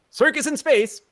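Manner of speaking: ordinary delivery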